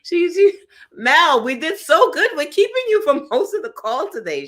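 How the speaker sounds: high, loud laughing dismay; host reacting as guest keeps vanishing; exasperated. Real, not acted. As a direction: throw up your hands in mock despair. Host exclaims guest dropped again.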